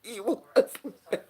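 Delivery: words squeezed out through laughter; laughing. Real, not acted. Laughing at her own story.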